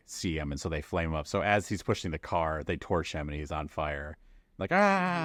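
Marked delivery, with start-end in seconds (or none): 4.7-5.3 mock high scream; Schrei des Brennenden. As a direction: yell out like a man on fire, played for laughs. Voicing man set on fire.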